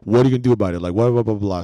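defiant retold quote.

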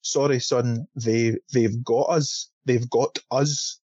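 slow, deliberate Scottish accent attempt; Sean Connery. Shown as a demonstration. Trying out how the line should have been said, slow Scottish accent. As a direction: feel out a Scottish film-star accent, slowly. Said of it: "when you try and put on, like, a Sean Connery accent".

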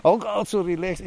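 laughing through the words; amused laugh on every word. Real, not acted. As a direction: chuckle while mocking the calm. Laughs at police officer's calm.

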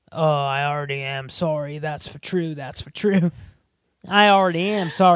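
put-on lightly done Cockney-sounding Australian accent; Australian-turned-Cockney accent. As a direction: attempt Australian, slip into Cockney British. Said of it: "your Australian accent is a Cockney British accent".

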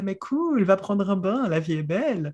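lightly voiced carefree, kindly inner voice; kindly alter ego. Kindly inner voice telling her to go take a bath, lightly acted. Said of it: "la duette bienveillante qui fait".

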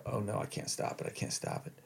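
breathless whisper of doom; panicked whisper. Retold or imitated. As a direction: whisper it as the disaster happens. Losing control of bowels while running.

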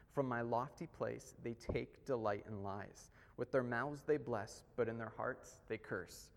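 a measured, solemn reading of the psalm; scripture reading. Acted. Pastor reading a psalm to the church, solemn and measured. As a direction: read the verses out to the congregation with weight.

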